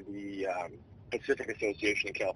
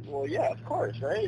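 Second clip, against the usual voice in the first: sarcastic; slower than usual. Retold or imitated. Mock reply to coach, laughing.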